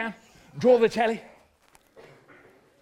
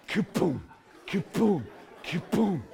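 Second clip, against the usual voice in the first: short voiced thuds with gaps; imitated falling thuds; 2 semitones lower than usual. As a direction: imitate bodies keeling over one by one. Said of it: "hear them going down".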